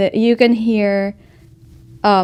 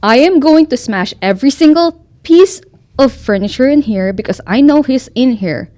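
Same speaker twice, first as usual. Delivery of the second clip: angry threat; 4 dB louder than usual. Acted. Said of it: "she went".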